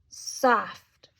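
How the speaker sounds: hushed whisper. Acted. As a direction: breathe the word out as a whisper. Acting out the soft chair.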